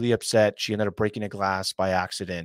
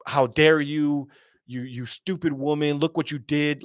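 mock yelling at wife; 4 semitones higher than usual. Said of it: "yelling at her and, like, saying".

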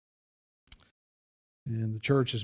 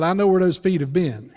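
laughing punchline; 5 semitones higher, 7 dB louder than usual. Retold or imitated.

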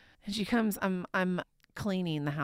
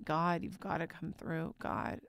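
softer, pleading prayer; hushed prayer; 7 dB quieter than usual. Retold or imitated. Mother retelling her park prayer, softer and pleading. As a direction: plead quietly to God. Desperate prayer retold quietly.

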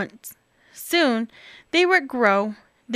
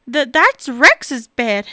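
slow, nervous stammer; stuttering; 5 dB louder, slower than usual. Acted. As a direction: stumble over the first word. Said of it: "stuttered Bob".

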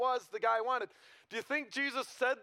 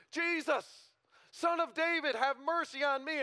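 crying out; 5 semitones higher than usual. Retold or imitated. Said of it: "and he cries out".

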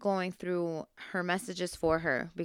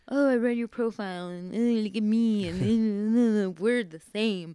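mocking quote; 3 dB louder than usual. Woman quoting his message back to him, mocking.

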